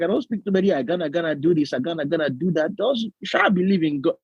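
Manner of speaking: put-on rattled-off Yoruba-accented English. Yoruba pastor struggling with English in service, imitated Yoruba accent. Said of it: "Yoruba accent, like, to the core".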